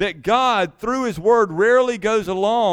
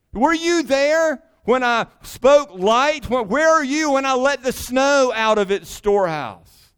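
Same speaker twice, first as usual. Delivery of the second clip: voice of God; 4 semitones higher than usual. Acted. God questioning Job, quoted.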